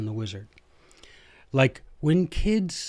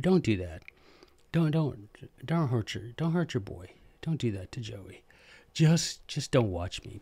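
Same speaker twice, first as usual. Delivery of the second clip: mock pleading; 5 dB quieter than usual. Mock pleading with viewers not to unsubscribe.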